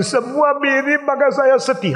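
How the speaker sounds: preacher lightly playing a sorrowful mother; grieving mother. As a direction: voice the sad mother pleading about her son. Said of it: "Dia bilang".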